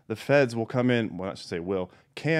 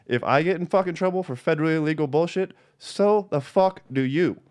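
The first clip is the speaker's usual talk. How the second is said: angry rant; 6 semitones higher than usual. Real, not acted. Ranting at Chase over drug money, getting angry. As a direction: let the anger build and drag out the last words.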